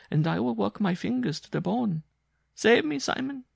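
begging him to save her, rising; pleading Jean. Acted. Jean begging Simon for protection, rising to a loud plea.

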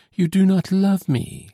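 tearful exclamation. A narrator's reading. Solange to her lover on receiving a passport, exclaiming. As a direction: exclaim it as a hurt, high-pitched accusation. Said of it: "she exclaimed".

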